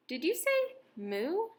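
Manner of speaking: a high squeaky rabbit question; squeal. A narrator's reading. Rabbit squeals at the cat who says moo. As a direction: squeal it in disbelief. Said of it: "squealed the rabbit".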